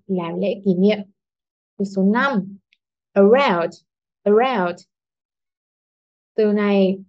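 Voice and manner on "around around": "around" with light "a", strong "round"; stress on second syllable. Shown as a demonstration. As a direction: slip past the "a" and lean on "round" in "around". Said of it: "trọng âm rơi vào âm tiết số hai". (nhấn âm hai "round" trong "around")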